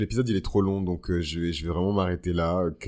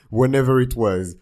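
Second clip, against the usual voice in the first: loud dismissive English repeat; 4 semitones higher, 9 dB louder than usual. Pretend. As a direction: toss it off with attitude. Repeated louder.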